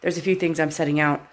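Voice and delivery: stuffy nose, congested and quiet. Real, not acted. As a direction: talk through a blocked, congested nose. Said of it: "I'm s-, sounding a little bit congested".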